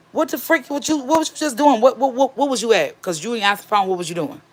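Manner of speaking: imitating herself grilling him; retold alarmed questioning. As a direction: fire off flustered, repeated questions in a high voice. Confronts husband coming home shaking.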